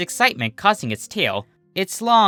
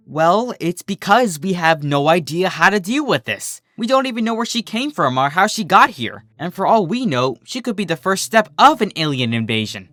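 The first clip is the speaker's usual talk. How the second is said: higher and louder, anxious rush; paranoid; 5 semitones higher, 3 dB louder than usual. Acted. Minuet frets to Berry Shine about an invasion. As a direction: work yourself into a panic. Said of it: "starting to sound rather paranoid".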